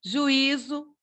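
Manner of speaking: "Juízo" split as ju-Í-zo; teacher demo of the hiatus in "Juízo"; separated I. Shown as a demonstration. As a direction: say "Juízo" with a clear, stressed I apart from the U. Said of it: "Também o i separado".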